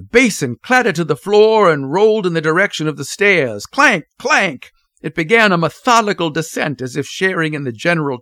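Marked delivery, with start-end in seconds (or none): 3.7-4.7 two high, ringing clanks; sharp spoken sound effect; imitated clanking. A narrator's reading. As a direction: voice a basin bouncing downstairs. Basin bouncing down stairs.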